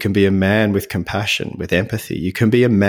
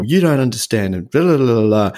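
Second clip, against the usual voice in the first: mock petulant teenage protest; impetuous teenage boy; 2 semitones higher than usual. To his then wife, a mild mock teenage whine. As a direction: hams up a sulky teen brushing off his wife. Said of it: "like this impetuous teenage boy and go".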